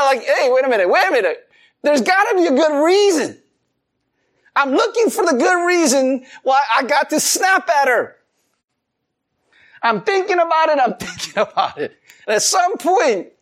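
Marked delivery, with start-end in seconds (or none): 0.2-12.0 justifying himself. Retold or imitated. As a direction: play up the frantic search for an excuse. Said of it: "I'm trying to justify it".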